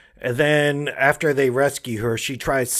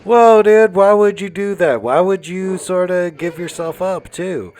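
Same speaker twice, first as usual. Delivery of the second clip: higher, louder incredulous whoa; mock shocked viewer; surprised disbelief; 5 semitones higher, 4 dB louder than usual. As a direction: react like you can't believe what he did. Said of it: "And you're like".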